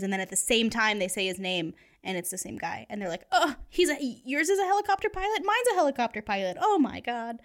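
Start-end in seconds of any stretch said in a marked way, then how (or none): 3.3-7.4 high, fast excited gushing. Retold or imitated. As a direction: squeal it out in shock. Two women discover same boyfriend.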